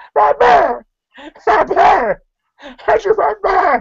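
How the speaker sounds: very high, comically funny yell. Mocking a wrestler who sounded funny while yelling: imitating James Storm yelling. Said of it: "he just sounded funny while yelling".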